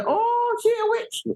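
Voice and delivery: high-pitched, exclaiming "oh" of mock alarm; mock shocked accusation. Africans reacting to a witch, high mock-shocked accusation. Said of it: "a witch, they say".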